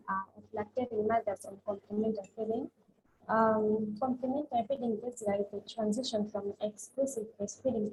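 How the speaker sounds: very low, faint voice; speaking too quietly to hear; barely audible. Real, not acted. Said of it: "Your voice is very low".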